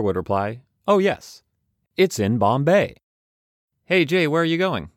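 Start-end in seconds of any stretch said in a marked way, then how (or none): 0.9-3.0 put-on much higher and louder, giddy child; kid's joke voice. Second-grade joke punchline acted. 3.9-4.9 put-on kid's question voice. Kid friend voiced in story.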